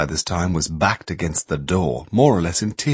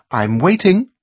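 impatient demand; 10 semitones higher, 4 dB louder than usual. A narrator's reading. Carol confronts the strikers.

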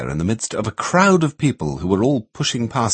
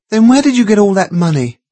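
demanding; 13 semitones higher, 8 dB louder than usual. A narrator's reading. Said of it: "Carol demanded".

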